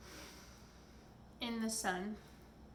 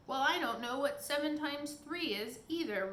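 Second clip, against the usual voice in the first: higher, louder roaring giant; 4 semitones higher, 5 dB louder than usual. Acted. Giant roars at the pixie over sums, louder. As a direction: let the giant roar his confusion. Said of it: "roared the giant".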